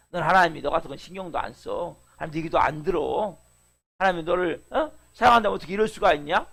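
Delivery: lightly voiced devil jeering at a struggling believer; Satan's taunts. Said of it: "속인단 말이에요".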